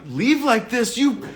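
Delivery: Madea going off. Retold or imitated. Imitating Madea going off on the father. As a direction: go off on him like Madea would. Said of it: "Madea going off on him".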